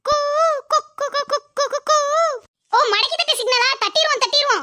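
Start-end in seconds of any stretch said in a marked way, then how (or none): 0.0-2.0 repeated cooing cuckoo call; bird call. Shown as a demonstration. Showing the friends her lookout signal, cooing like a bird. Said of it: "signal எப்படி கொடுப்பீங்க?".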